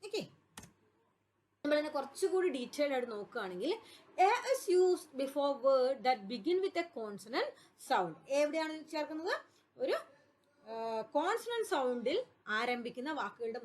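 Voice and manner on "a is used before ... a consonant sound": very slow, every word spaced out; slow dictation. Shown as a demonstration. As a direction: read the rule slowly so students can write it down. Teacher reads rule for copying.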